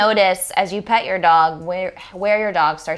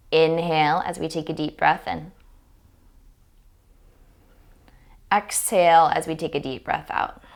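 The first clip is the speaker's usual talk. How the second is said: guided meditation. Real, not acted. Yoga teacher guiding owners and dogs to breathe together, guided meditation. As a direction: lead the breath calmly, line by line.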